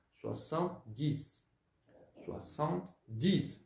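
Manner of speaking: soixante-dix said slowly, swa-sant-dees; drawn out syllable by syllable; slow French pronunciation. Shown as a demonstration. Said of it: "vai pronunciar dessa forma".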